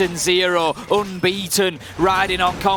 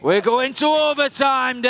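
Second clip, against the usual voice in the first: catchphrase on request; 5 semitones higher than usual. Shown as a demonstration. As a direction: give the catchphrase its full hype. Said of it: "You do it again, 'cause I missed it".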